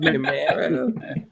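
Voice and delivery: Camaro stretched slowly, cam-AIR-oh; drawn-out Camaro. Shown as a demonstration. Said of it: "Is that how you say it".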